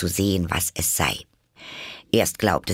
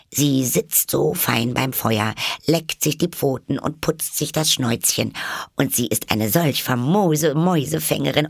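put-on high-pitched girl praising her pet; Alice, fondly reminiscing; 8 semitones higher than usual. A narrator's reading. Alice praises her cat to the mouse, fondly reminiscing. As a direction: lilt upward in fond admiration.

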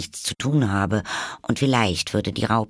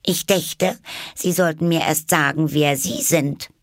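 put-on much higher, earnest girl's voice; serious, offended girl; 9 semitones higher, 3 dB louder than usual. A narrator's reading. Alice, annoyed, earnestly answers the caterpillar. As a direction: hold your head high and demand. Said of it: "sprach sehr ernst".

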